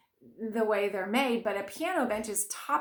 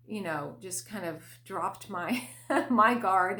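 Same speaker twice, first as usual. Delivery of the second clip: normal talking voice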